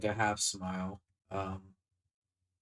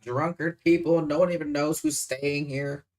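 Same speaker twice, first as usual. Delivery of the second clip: loud, pitched-up scolding; 4 semitones higher, 9 dB louder than usual. Acted. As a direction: scold him at full volume. In-character scolding about the inn.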